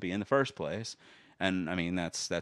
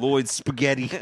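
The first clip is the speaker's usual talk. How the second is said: goofy shout; 7 semitones higher, 8 dB louder than usual. Acted. Jokey name called out.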